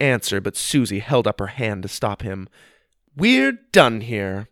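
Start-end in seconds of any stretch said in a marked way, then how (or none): 3.1-4.5 slow, haughty dismissal; royal flair. Acted. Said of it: "with her token royal flair".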